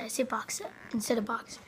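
fast unvoiced whisper. Real, not acted. Vlogger whispering how he says his name. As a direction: murmur the correction.

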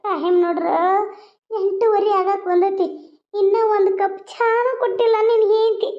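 high, pitiful mock whimper; put-on tearful complaint. Mother complaining to son about no tea, put-on tearful complaint. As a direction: play the neglected old mother.

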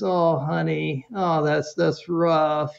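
slow, understated sympathy; empathetic mom. Retold or imitated. Mom consoles son over lost coat, empathetic. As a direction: gently imitate a mother showing empathy. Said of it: "she practices her empathy".

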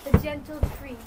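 poem recitation. Acted. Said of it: "What was your poem about?".

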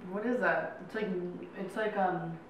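speaking between bites; talking while chewing. Real, not acted. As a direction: mouth partly full of candy. Seen 1: both women eat small candy bits, hands at mouth throughout.

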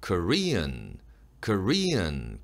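"Korean" with the accent on "re", ending in a nasal n; demonstrated "Korean" with nasal final sound; stressed e, nasal ending. Shown as a demonstration. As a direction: lift "re" in "Korean", finish through the nose. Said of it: "끝소리는 비음으로 처리하는 거예요".

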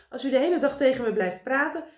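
high, loud complaint; impatient cry. A narrator's reading. Karel complains to talkative meneer Pen, impatient cry. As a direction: protest at being held up. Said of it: "riep Karel".

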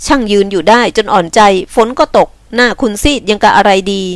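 lightly voiced exasperated man; mild scolding in a man's part. Man fussing over a rain-soaked woman, mildly exasperated.

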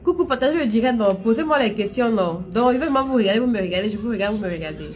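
rally the viewers; eager appeal to share the live; excited call. Real, not acted.

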